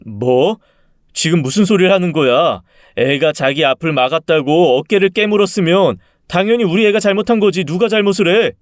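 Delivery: high, heated marital protest; indignant disbelief. Acted. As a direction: build from shock into heated argument. Husband argues with wife, incredulous.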